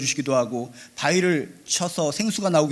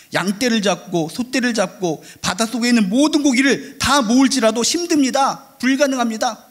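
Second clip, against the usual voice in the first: higher, insistent retold objection; preacher acting out raised-voice disbelief; emphatic protest; 6 semitones higher, 4 dB louder than usual. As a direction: protest that it cannot be done. Acts out Moses's impossible-task protest.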